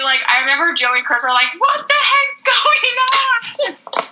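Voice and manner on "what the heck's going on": high, slow baffled question; confused bandmates. Retold or imitated. Joey and Chris confused onstage, high and slow. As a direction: drag it out, pitched up and lost.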